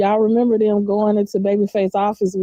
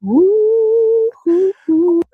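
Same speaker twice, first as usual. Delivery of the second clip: whooping; 10 semitones higher, 5 dB louder, much slower than usual. Real, not acted. Whooping after the sultry bit.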